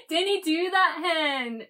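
high, loud mock-Scottish teasing; exaggerated Scottish accent. Wife teasing her husband, exaggerated Scottish accent. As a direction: play up a caricature Scottish accent. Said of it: "reply back in my own Scottish accent".

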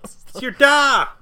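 slow, loud West Country Vader; West Country accent. Retold or imitated. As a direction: boom it out in broad West Country. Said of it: "his thick West Country accents".

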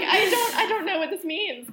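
high, loud laughing retort; retelling her reply, laughing and bewildered; laughing disbelief. Retold or imitated. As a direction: laugh through the quote in mock confusion. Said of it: "And I was like".

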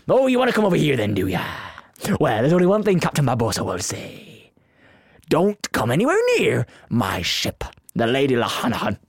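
pirate voice. Shown as a demonstration. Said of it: "I've got pirate".

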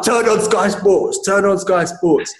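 high, drawn-out insistent order; worked-up demand. Retold or imitated. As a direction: re-enact a fuming order to a mate. Retold frantic order down the phone.

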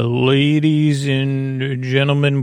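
slow, grand showman intro; announcer voice. Acted. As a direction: roll it out like a ringmaster.

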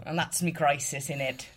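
light put-on British accent. Shown as a demonstration. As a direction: lean playfully into a British accent. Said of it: "my little British accent".

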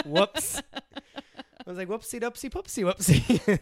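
put-on high squeaky baby-talk apology; goofy cutesy fake sorry; high baby-talk whoopsie doopsie; silly whoopsie voice. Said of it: "And I was like".

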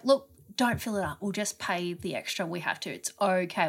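soft, low, soothing delivery; reassuring. Retold or imitated. Telling Tal not to fill up, reassuring. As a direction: talk a flustered friend down softly. Friend reassuring her panicking partner.

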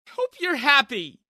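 loud, slow, tearful jab; tearful bitter shout. A narrator's reading. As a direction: spit it out while sniffling.

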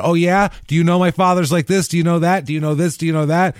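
high, rapid-fire indignant questions; argumentative challenge. Acted. New York daughter arguing over her father, combative. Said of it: "There would be an argument about".

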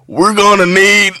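slow, loud grave announcement; deadpan emergency call, drawn out; mock serious country tech guy. Tech guy announcing an emergency to the TV audience. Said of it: "And he's like".

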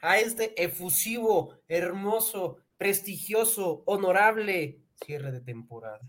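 slow grand showman welcome; drawn-out circus announcer; ringmaster. Acted. Grand season-finale welcome.

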